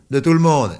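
high loud fed-up shout; angry outburst. Acted. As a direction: storm off yelling. Boy shouts at Yvonne.

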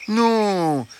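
high-pitched soothing fox voice; reassuring fox. Acted. Fox assuring hens he is not hungry, reassuring. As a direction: reassure them in a sweet high voice.

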